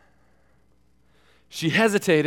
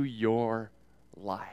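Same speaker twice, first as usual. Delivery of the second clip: preaching. Acted. Preacher urges congregation toward the gospel, earnestly.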